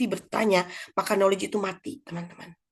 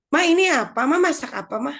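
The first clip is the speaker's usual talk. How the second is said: put-on high, louder pestering kid; curious child; 6 semitones higher, 5 dB louder than usual. Child asking mother about her cooking, curious. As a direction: imitate a child nagging with questions. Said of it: "anaknya ikut ke dapur ya".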